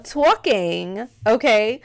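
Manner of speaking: put-on New York accent, drawn-out "talking"; Wendy Williams. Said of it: "I love her accent".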